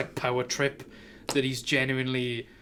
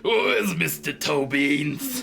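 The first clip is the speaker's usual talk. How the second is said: fretting pet owner; slower than usual. Acted. Francine hunting for her kitty cat, hammed-up and drawn out. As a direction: call out for the missing pet, hammed-up.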